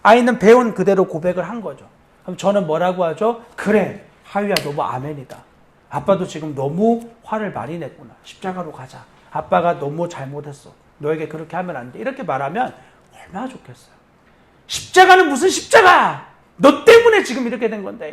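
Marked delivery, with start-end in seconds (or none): 3.6-12.0 low, softened fatherly admission; gentle apology. Acted. Dad admitting fault to his child, gentle apology. 14.7-18.1 higher, louder indignant dad; angry retort. Acted. Dad blaming child who corrected him, angry. Acting out angry father snapping back.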